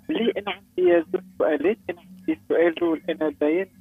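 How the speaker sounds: choppy phone line breaking up; corrupted audio. Real, not acted. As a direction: voice cutting in and out. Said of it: "الصوت متقطع يا خلود".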